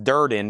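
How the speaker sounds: "Durden" as DUR-din, stress up front; "Durden" with a short, unstressed ending; name said DUR-din. Shown as a demonstration. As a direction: say "Durden" in two quick syllables, DUR-din. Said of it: "my last name is pronounced".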